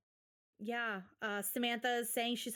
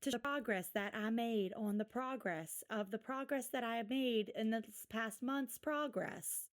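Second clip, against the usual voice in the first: mocking parody. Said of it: "mocking ... on TikTok".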